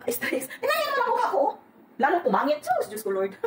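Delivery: high-pitched laughing lament; laughing at herself. Real, not acted. Vlogger to viewers about her tired face, laughing. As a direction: laugh through it, mock-despairing.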